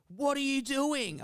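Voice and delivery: put-on high, slow old lady demand. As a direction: play the suspicious neighbour. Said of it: "She's like".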